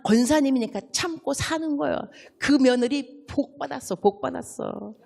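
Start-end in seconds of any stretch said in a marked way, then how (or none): 2.4-4.9 flattering elder. Shown as a demonstration. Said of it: "이렇게 말씀하셔야 돼요".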